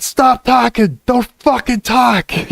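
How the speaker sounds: high-pitched, exasperated mock yell. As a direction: reenact shouting down a chatbot. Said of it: "I was yelling at it".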